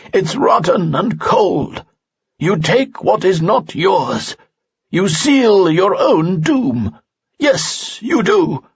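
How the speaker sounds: put-on the old sage condemns the spirit slowly and sternly. A narrator's reading. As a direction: pronounce doom slowly like an elder. Falsafel's voice in story.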